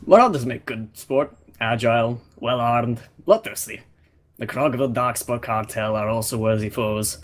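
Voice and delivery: lightly voiced Russian warrior, proud; a hint of a Russian accent, haughty hunter; mild Russian accent, disdainful Draken. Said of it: "I'll just do a Russian accent".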